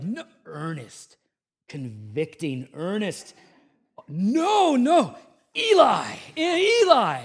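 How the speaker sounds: put-on high, loud childish protest; little boy's denial. Son denying to dad, shrill high childish protest. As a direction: squeal it like a toddler blaming his brother. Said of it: "And he's like".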